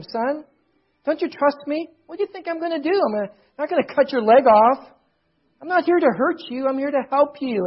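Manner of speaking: lightly acted plea to win a child's trust; pleading father. Father pleads with frightened son.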